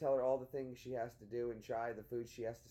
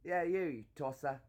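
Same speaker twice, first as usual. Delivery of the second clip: mock British insult; 2 semitones higher, 3 dB louder than usual.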